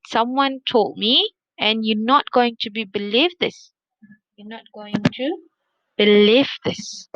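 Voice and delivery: building teaser to hook the friend; engaging teller. Shown as a demonstration. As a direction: draw out the suspense before the reveal. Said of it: "that's how you can engage the listener".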